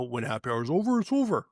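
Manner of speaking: lightly mocking the staff training line, over jumps up; mock staff rule. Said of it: "you know".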